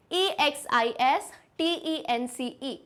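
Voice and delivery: letter by letter, slow and even; slow spelling out. Shown as a demonstration. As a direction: spell each letter slowly for pupils to repeat. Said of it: "spelling दो बार अपन repeat करेंगे".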